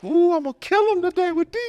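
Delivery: high, laughing boast; excited. Retold or imitated. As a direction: brag it out laughing. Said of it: "I was like".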